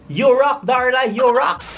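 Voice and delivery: high, bright chant of praise; sing-song cheer to Darla; cheering catchphrase, pitched high. Acted.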